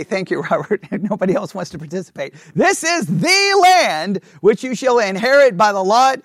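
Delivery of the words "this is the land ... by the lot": loud reading. Shown as a demonstration. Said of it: "read that word out loud".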